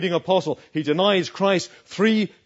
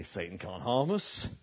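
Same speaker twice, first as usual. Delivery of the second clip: mock boasting; 4 dB louder than usual. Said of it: "They say".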